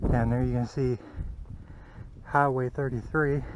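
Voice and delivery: panting between words; breathless from the climb; out of breath. Real, not acted. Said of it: "I'm out of breath".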